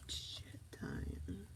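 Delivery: hushed whispered curse word. Real, not acted. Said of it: "I'm whispering my curse words".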